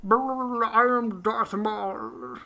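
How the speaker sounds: wobbly fan-chopped voice. Retold or imitated. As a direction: talk through a spinning fan. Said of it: "talking into a fan".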